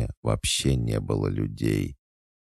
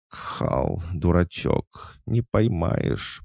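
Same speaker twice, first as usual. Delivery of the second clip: high, slow, teasing little voice; thin whispery voice; 7 semitones higher, much slower than usual. A narrator's reading. Small voice from his memories taunts him, thin and high. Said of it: "прошептал тонкий голосок из моих воспоминаний".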